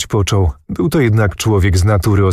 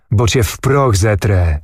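ordinary delivery, nothing marked

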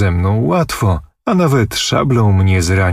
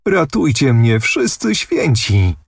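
feigned sobbing plea; 6 semitones higher than usual. Pretend. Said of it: "powtarzała łkając Anusia".

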